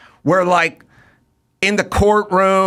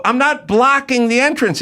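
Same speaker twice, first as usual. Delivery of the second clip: higher, insistent; arguing back, higher and insistent; exasperated protest; 9 semitones higher than usual. Retold or imitated. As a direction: stress NOT. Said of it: "I go".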